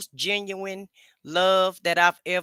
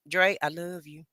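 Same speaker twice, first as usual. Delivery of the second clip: soft, low stress on LOVE in "I love you"; some stank on it; 4 semitones lower, 5 dB quieter than usual. Retold or imitated. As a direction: imitate him leaning into "love". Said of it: "put some stank on it".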